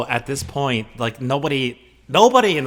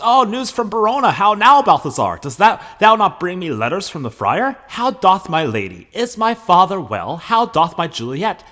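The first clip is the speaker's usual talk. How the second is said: high, loud, eager questions; eager Romeo; 8 semitones higher, 7 dB louder than usual. Acted. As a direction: pounce on each question, hungry for news. Teacher acts Romeo asking news.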